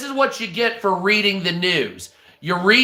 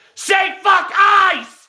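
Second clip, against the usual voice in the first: mock screaming, much higher and slower; 11 semitones higher, 4 dB louder than usual. Retelling how a man screamed at a stranger, imitating someone screaming. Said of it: "screaming at the dude like I did".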